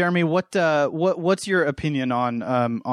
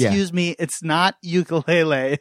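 mock pretentious pedant; pretentious correcting; 2 semitones higher than usual. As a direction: play a snob butting in to correct someone. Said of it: "super pretentious for me to".

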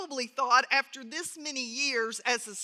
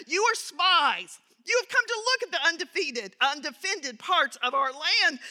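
harsh accusation. Acted. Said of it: "spoke to them harshly".

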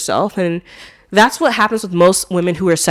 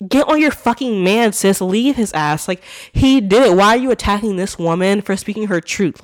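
mildly heated, higher-pitched scolding; indignant telling-off; 3 semitones higher, 4 dB louder than usual. Acted. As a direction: take her to task, exasperated. Indignant imagined telling-off of celebrity.

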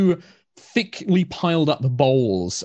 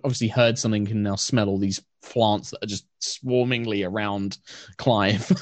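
usual speaking voice

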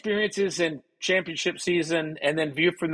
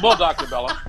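eager student. Retold or imitated. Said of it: "I said".

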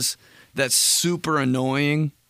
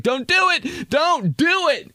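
much higher, squeaky "don't do it"; high pleading voice; 3 dB louder, slower than usual. Acted. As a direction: squeak it out like a panicked little voice.

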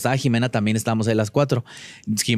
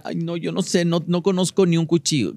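mock helpless voice; 5 semitones higher than usual. Imitating contestants who fake ignorance.

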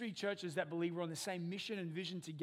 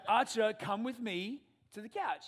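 slow, louder firm command; firm dad; 4 semitones higher, 7 dB louder, slower than usual. Retold or imitated. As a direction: call the boy firmly, word by word.

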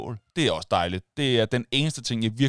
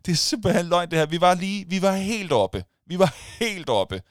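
higher, wailing mock dismay; mock despair; 8 semitones higher than usual. Fans groaning after the penalty, mock despair. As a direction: lament it like a gutted fan. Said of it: "Man sagde".

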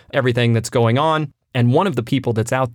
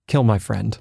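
deadpan order to kill; cold order; 3 semitones lower than usual. Retold or imitated. Villain turning to his goons, coldly ordering the kill. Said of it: "Oh, it's so cold".

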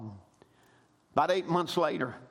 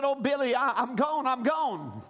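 mild crying plea; 5 semitones higher than usual. Acted. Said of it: "And she was crying".

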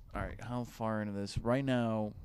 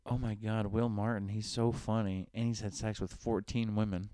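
mock fan gush. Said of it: "let's try that again".

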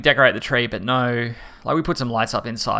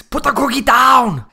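much higher, louder, slow command; action hero impression; 11 semitones higher, 6 dB louder, slower than usual. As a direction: bark it like a movie tough guy. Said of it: "It's perfect, dude".

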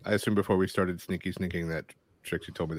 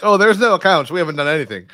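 high, loud, fake-innocent protest; mock innocent; 10 semitones higher, 12 dB louder than usual. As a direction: play it overly innocent. Character feigns innocence.

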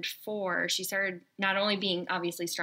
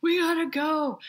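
higher, louder hurried urging, retold; stressed mom; 8 semitones higher, 4 dB louder than usual. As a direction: rush them out the door. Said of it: "at the time I was just like".

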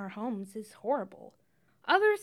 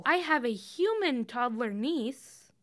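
robotic; slower than usual. Real, not acted. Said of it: "That makes me sound like a robot".

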